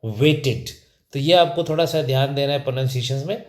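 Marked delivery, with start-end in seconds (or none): 0.0-0.7 "वेटेड" repeated as WAY-tid; firm teacher's model of "वेटेड"; correct pronunciation. Shown as a demonstration. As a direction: end "वेटेड" with short i before d. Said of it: "क्या होगा".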